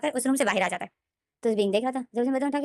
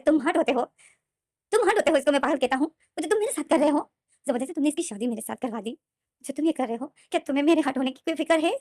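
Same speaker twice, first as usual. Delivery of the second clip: angry; 4 semitones higher than usual. Acted. Wing furious at forced marriage.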